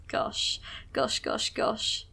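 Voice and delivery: whispered gosh under the breath; nervous whisper. Real, not acted. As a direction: breathe the words out, tense and anxious. Nervous wait as battle starts.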